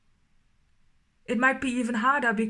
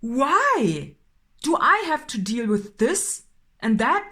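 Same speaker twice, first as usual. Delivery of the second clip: louder, exasperated questioning; frustrated why; 4 dB louder, slower than usual. Acted. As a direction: vent the frustration of being stuck. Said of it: "I'm getting angry".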